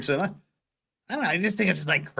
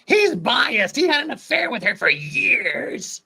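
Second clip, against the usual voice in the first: high, louder accusation; indignant accusation; 9 semitones higher, 5 dB louder than usual. Acted. Lawyer accusing the witness at sidebar, high and indignant. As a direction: accuse him, outraged.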